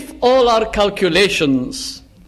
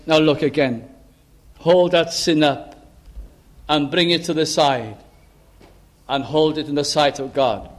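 lower, gently measured instruction; more gracious; 4 semitones lower than usual. Acted. Paul graciously asking the Christian to look again, gentle. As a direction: coax graciously, unforced. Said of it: "perhaps more graciously".

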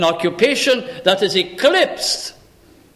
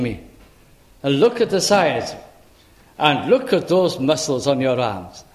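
put-on talking to little children; 4 semitones lower than usual. Grandfather greeting his grandchildren, tenderly admiring. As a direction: marvel gently at a small child. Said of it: "so you talk to little children".

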